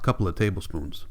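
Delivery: whispered under the breath; muttered aside. A narrator's reading. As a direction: mutter it to yourself. Muttering while measuring medicine.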